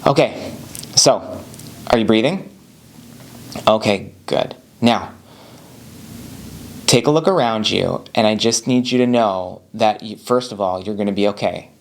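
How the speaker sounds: calm, gentle reassurance; reassuring. Shown as a demonstration. Husband on the phone to his anxious wife, reassuring. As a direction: tell her she'll be okay, gently. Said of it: "by just telling her that she's gonna be okay".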